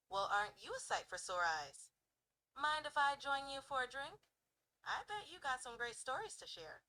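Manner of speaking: lightly sassy, playful pick-up line; playful smirk, a touch of sass; sassy, confident. Shown as a demonstration. Walking up to someone at a bar, sassy and confident. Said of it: "going for a sassy, confident vibe".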